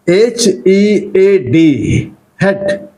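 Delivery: slow letters, then head said short; model pronunciation. Shown as a demonstration. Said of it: "I'm going to pronounce these words".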